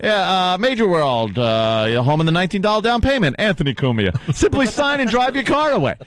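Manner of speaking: mock radio ad read. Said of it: "It's like, it's like".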